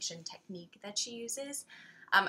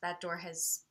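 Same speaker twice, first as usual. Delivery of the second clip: quiet, retold relief; softer, low-key release; relieved acceptance; 3 semitones lower, 5 dB quieter than usual. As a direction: recall letting go, softly. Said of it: "I felt a tremendous relief".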